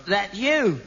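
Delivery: ordinary talk, nothing marked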